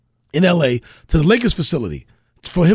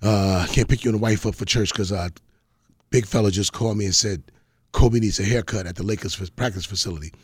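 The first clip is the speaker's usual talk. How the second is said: low, soft, apologetic friend on the phone; imitating the barber friend; 9 semitones lower, 5 dB quieter than usual. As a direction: mumble it low like you're cancelling. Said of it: "He goes".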